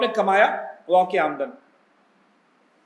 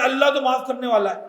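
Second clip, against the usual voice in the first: complacent voice. Retold or imitated. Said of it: "تو اللہ ایسے معاف کرنے والا بھی نہیں".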